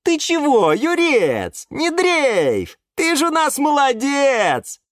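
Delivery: high, forceful encouragement; indignant pep talk. A narrator's reading. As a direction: buck up a downcast friend. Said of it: "возмутилась Пальма Мальва". (возмущённо и бодро, высоким голосом)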